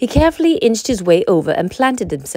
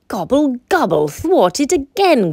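groaned; 5 semitones higher than usual. Acted. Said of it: "groaned Turkey".

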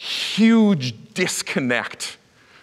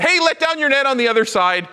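calling out; 11 semitones higher, 3 dB louder than usual. Retold or imitated. Voice from the shore yelling.

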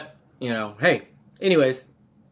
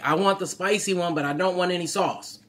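imitating a customer; 8 semitones higher than usual. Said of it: "this woman was like".

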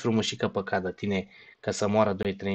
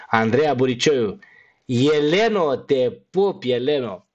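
calling out names; 3 semitones higher, 3 dB louder, slower than usual. Real, not acted. Calling out shout-outs while signing off.

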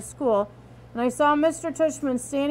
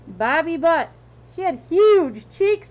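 excited; 4 semitones higher, 8 dB louder, slower than usual. Acted. Dad jokes about a professor.

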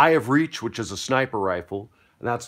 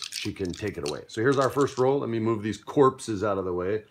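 ordinary talk

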